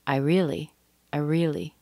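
"I" clipped quickly into "really"; really short I. Shown as a demonstration. Teacher shows structure words, very short I. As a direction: pass lightly over "I" and land on "really". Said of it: "really short".

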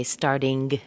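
"starting" with a hard g popped after the ng; hard G ending. Shown as a demonstration. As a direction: wrongly end "starting" on an audible g. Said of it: "There's no G sound".

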